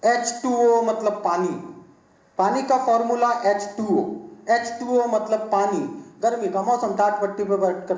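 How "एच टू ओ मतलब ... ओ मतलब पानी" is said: slow, higher-pitched mock classroom recitation; drawn-out rote-learning chant, lightly acted; teacher drilling by rote. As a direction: imitate a teacher making pupils memorize. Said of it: "हमारे teacher हमें याद करा रहे थे".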